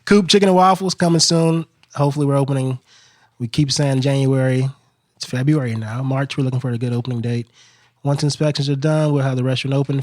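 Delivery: measured radio promo read. Shown as a demonstration. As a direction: read it out like a local radio spot. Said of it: "do it in your, uh, your radio voice".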